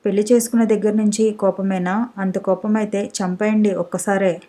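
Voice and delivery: ordinary delivery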